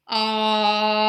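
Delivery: loud sustained ah at the base of the glide; vocal glide start. Shown as a demonstration. Therapist modeling a glide for the patient, loud sustained ah. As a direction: hold a loud open ah, then slide up. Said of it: "let's make this one count".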